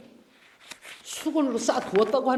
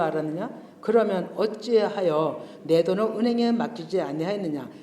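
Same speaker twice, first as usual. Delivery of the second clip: measured, solemn Bible reading; scripture reading. Acted. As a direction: read the verses out to the congregation. Reads scripture aloud. (성경 봉독하듯 엄숙하게 읽기)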